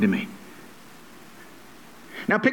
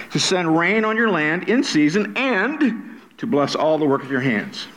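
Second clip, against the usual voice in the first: "and" stretched, followed by a break; stress on "and". Shown as a demonstration. Preacher links blessings for congregation, stressing "and". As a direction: hold "and" before the next blessing. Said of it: "I emphasize the word and".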